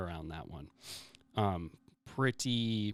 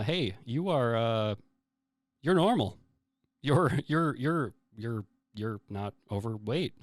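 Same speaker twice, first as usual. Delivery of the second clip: amazed doctor; 4 dB louder than usual. Retold or imitated. Pediatrician tells a girl she's normal, amazed stammer. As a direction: sputter it like a doctor who can't believe it. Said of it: "the pediatrician ... was like".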